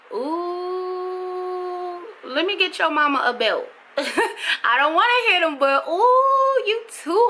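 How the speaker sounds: high mock squeal of exasperation, laughing; playfully fed up with someone's rude kids; mock exasperated mom. Vlogger joking to viewers she'd fetch the belt, high amused squeal.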